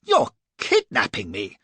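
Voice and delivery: loud, slow accusing yell. A narrator's reading. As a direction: hurl the accusation. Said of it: "I yelled".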